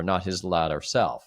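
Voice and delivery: ordinary delivery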